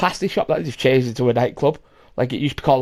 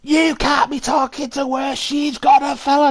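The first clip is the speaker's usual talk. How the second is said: higher, drawn-out imitation of a scolding; mock objection; 9 semitones higher, slower than usual. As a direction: imitate her objecting, slow and high. Retold objection from the woman.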